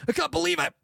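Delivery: very high, loud wailing cry; hysterical wail. Retold or imitated. Girl in waiting room wailing over her phone. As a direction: shriek it like she's lost everything. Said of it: "and she goes".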